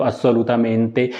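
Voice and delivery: assolutamente drawn out slowly, syllable by syllable; slow Italian word. Shown as a demonstration. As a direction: spell out assolutamente slowly for students. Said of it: "जब आप सोचेंगे कि ली लगता है English में". (assolutamente धीरे-धीरे सिखाते हुए)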